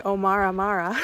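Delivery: "Omar Amara" in a North American accent with hard rolled r's. Shown as a demonstration. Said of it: "In a North American accent".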